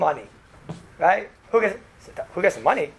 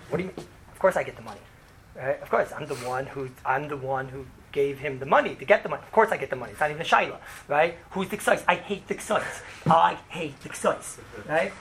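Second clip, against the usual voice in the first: low, quiet, self-assured insistence that the money is obviously his; smug entitled claim; 4 semitones lower, 5 dB quieter than usual. Shown as a demonstration. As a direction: mutter it as if it's beyond question. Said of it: "Now watch, I could do it the exact same way".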